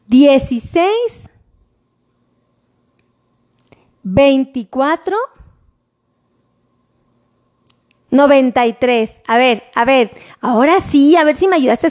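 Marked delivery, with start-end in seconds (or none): 0.1-9.1 slow, each number set apart with pauses; spelling out a phone number slowly for the viewers; slower dictation. Shown as a demonstration. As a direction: dictate it slowly so they can write it down. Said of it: "lo dicto más lento".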